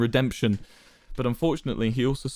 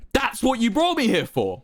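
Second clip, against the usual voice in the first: shakily; 13 semitones higher than usual. A narrator's reading. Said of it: "Wilbur replied shakily".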